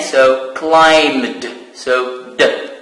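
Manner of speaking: "climbed" with a silent b and a final d. Shown as a demonstration. Teacher warning the class that the b in "climbed" is silent. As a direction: say "climbed" as klaimd. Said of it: "So plus E D at the end".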